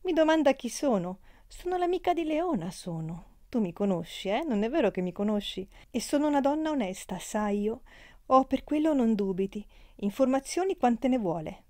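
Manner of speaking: the friend answers the count in a huff; offended chatty girl. Acted. Amalia offended.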